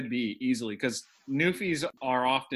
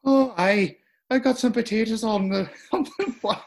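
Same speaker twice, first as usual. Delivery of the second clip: higher mock Eastern European accent, laughing through it; a peasant peeling potatoes, hammed up; put-on foreign accent; 7 semitones higher than usual. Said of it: "Can you guess that accent?".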